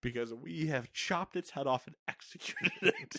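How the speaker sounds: laughing, shouting the quote. Pretend.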